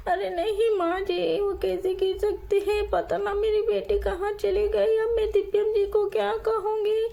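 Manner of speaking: put-on a mother half crying for her baby; tearful mother. Mother weeps to mother-in-law over her lost baby.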